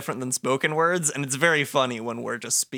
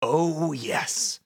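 the darkness. Acted. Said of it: "I can be the darkness".

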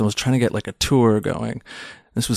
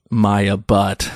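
laughing through punchline; 2 semitones lower than usual. Real, not acted. Joke punchline on baby name.

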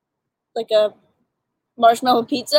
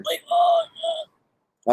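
mock shout. Imagining pizza upsetting his stomach.

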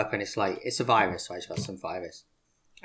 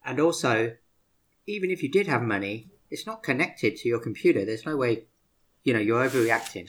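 exasperated dad; 5 dB louder than usual. Retold or imitated. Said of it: "I'm like".

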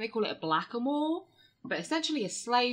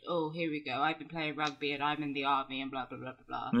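Prince Harry; 6 semitones lower than usual. Acted. Friend demonstrating how the prince sounds, very posh. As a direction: mumble along in a posh British royal accent. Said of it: "Prince Harry just sounds very, very posh".

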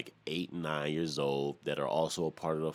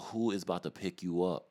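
raised, scornful put-down to an imagined scrub; sneering courtside heckle, a bit higher and louder; mocking taunt; 4 semitones higher, 3 dB louder than usual. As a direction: talk down to him like he's a joke. Mocking guy in jeans at gym.

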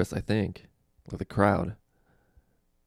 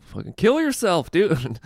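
much higher, louder heckler shout; mock heckle yell; 10 semitones higher, 5 dB louder, slower than usual. Heckler yelling at a sad-joke comic, mock shout. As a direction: bark it from the back like a heckler.

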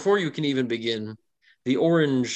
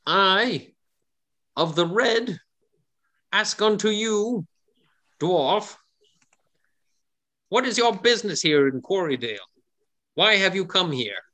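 little tiny voice; 8 semitones higher than usual. Acted. Red gnome questions the dwarf in a tiny high voice. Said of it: "chimes in in his little tiny voice".

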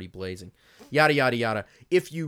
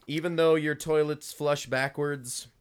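mock listener voice; 5 semitones higher, 5 dB louder than usual. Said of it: "said viewer".

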